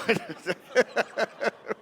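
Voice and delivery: a short high giggle; sheepish high laugh. Real, not acted. Laughing at own tears.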